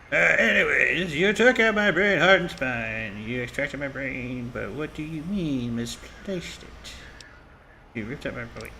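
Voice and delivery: speaking through a gauze-filled mouth. Real, not acted. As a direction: after wisdom teeth, gauze in mouth. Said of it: "I have gauze in my mouth".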